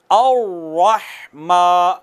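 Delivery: slow अर्रहमा with a thick रा; heavy ra, drawn out. Shown as a demonstration. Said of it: "मोटा करने का तरीका ये है". (अर्रहमा मोटी रा के साथ धीरे)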